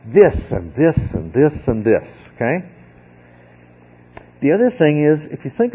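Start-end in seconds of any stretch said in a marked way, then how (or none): 0.1-2.1 every "this" stressed, linked by "and"; emphatic listing. Shown as a demonstration. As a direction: hit each THIS in turn. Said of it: "He does it for emphasis".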